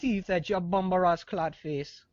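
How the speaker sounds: lightly put-on Jamaican accent; a hint of Jamaican patois. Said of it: "make it with the accent right now".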